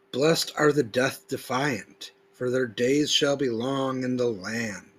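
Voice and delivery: solemn, deliberate recitation with weighted words; emphatic scripture reading. Acted. Preacher reading verses to his audience, solemn and emphatic. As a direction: read each verse like a proclamation. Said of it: "I put a certain emphasis throughout certain words".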